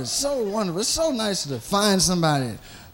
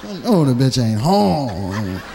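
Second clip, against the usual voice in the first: low, stubborn self-talk; muttering to himself; 7 semitones lower than usual. Retold or imitated. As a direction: grumble your resolve under your breath. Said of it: "you try not".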